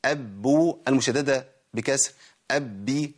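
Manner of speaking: each form of ب said slowly and crisply; letter drill. Shown as a demonstration. The sheikh drills the seven cases of ب for students. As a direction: give أب, با, بو, بي one by one like a recitation teacher. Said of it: "دلوقتي عندنا حالات الإيه؟ الباء".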